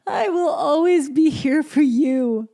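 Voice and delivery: real tearful catch, voice lifting high; fighting back real tears; mother moved to tears by her own promise; emotional. Real, not acted. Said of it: "I'm getting so emotional".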